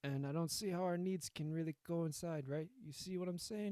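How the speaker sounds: attempted Italian mob-boss accent; rough go at an Italian accent; Italian mobster accent. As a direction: reassure like an Italian-accented Don. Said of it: "I can't do an Italian accent".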